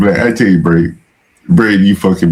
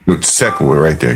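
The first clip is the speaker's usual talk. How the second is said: ordinary delivery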